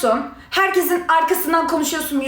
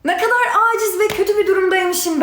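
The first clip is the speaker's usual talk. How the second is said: laughing through irritation; exasperated laughing line; angry laughter; 5 semitones higher than usual. Real, not acted. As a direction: laugh it out in annoyance. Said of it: "sinirden gülüyorum ya".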